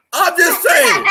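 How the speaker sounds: laughing through the words; giggling, squeaky high. Real, not acted. Laughing after her joke.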